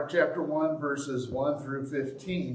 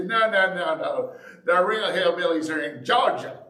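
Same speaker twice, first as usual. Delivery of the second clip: louder, emphatic protest as a Tennessee local; mock Tennessee denial; 3 semitones higher, 4 dB louder than usual. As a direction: play a Tennessean brushing off the label. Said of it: "the people in Tennessee say".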